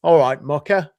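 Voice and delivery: northern English greeting. Shown as a demonstration. Northerner showing how people greet each other, northern English accent. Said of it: "in the north of England ... we say".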